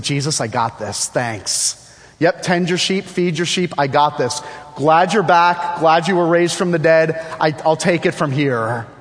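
mock-casual, overconfident brush-off; breezy self-assurance. Peter brushing off Jesus after restoration, mock self-assured. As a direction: play Peter cheerily taking over. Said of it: "walked away from this encounter with Jesus and said".

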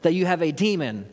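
an affronted crowd demanding answers; heated challenge. Acted. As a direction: hurl the questions back at him. Voicing heated Jews' challenge.

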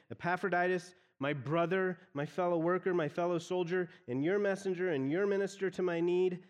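a light game show host build-up; game show reveal. Shown as a demonstration. Preacher playing a game show host to the church, mildly excited. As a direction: stack each title like a prize being unveiled. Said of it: "the way someone might announce winning a prize on a game show".

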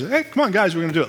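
lightly voiced dad, starting high; rally the kids with a high-pitched "hey, come on"; a hint of upbeat dad coaxing; dad rallying family. Acts out dad rallying his family.

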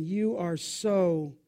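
a hint of a cutting mother; lightly voiced belittling mom; mild mock contempt. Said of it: "Or even this one".

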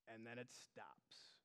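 deflated, very soft, slow; sudden letdown. Acted. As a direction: drop to a near whisper, slow. Dominoes halt, voice drops.

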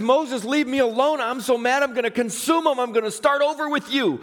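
put-on fed up like a parent with a naughty child; God is hot. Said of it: "And God is hot".

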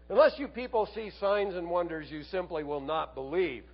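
mildly stern quoted rebuke, starting high; a touch of stinging reproof; harsh reply. Acted. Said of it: "seems like he replies harshly".

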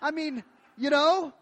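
put-on high, loud, eager child; hammed-up hopeful kid; optimistic little boy. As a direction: pipe up with hopeful insistence. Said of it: "the little boy says".

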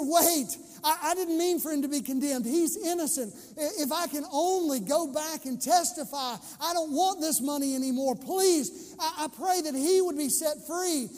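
mild desperate plea of a guilt-stricken man; pleading Judas. Retold or imitated. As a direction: beg to undo it, lightly voiced. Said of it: "Can you hear that in the voice of Judas?".

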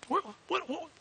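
high squeaky what what; mock amazement. Real, not acted. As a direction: sputter in disbelief.

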